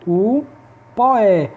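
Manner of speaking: "O", pause, then "poé" run together as one beat; poetic syllable count. Shown as a demonstration. Teacher counting poetic syllables for students, merged "poé" set apart. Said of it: "a gente vai contar apenas sete".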